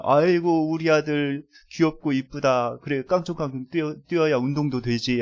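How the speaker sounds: lightly acted doting parent; a touch of affectionate praise for a child; fond praise. Parent praising a little son bouncing on the bed, mild retold fondness. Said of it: "칭찬도 해주고".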